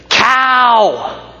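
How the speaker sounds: high sharp yell of Cow from a passing car; insult shouted. Retold or imitated. Driver yelling an insult from his window, high yell. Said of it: "like that".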